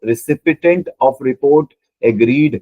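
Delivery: drawn out word by word, like dictating a key phrase; slow emphatic reading. Shown as a demonstration. Teacher reading the answer option aloud to the class, very slow. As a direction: spell the option out slowly for students. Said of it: "Recipient of report agreed का मतलब क्या है?".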